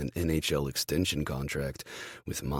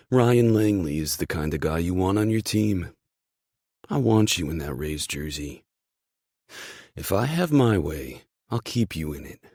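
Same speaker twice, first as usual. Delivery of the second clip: louder, emphatic voice of an approving boss; team boss; 3 semitones higher, 6 dB louder than usual. Acted. Boss praising his injured team player, loud and emphatic. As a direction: sell your faith in the player, loud and emphatic.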